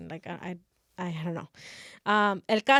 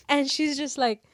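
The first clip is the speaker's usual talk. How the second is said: put-on earnest girl; 6 semitones higher, 3 dB louder than usual. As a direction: play it up as an over-earnest, fearful student. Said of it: "a girl's like".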